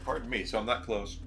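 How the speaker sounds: talking through hiccups; interrupted by hiccups. Real, not acted. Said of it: "I got the hiccups now".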